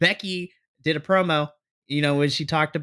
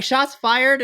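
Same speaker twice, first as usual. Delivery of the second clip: hyped exclamation; 9 semitones higher, 4 dB louder than usual. Retold or imitated. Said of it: "I was like".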